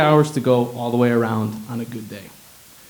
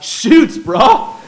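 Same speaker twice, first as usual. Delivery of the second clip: much higher, much louder pidgin shout; surfer yell; 13 semitones higher, 10 dB louder than usual. Retold or imitated. The doctor answers every question, loud high surfer shout. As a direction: yell it with the hang ten sign. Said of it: "yelled out".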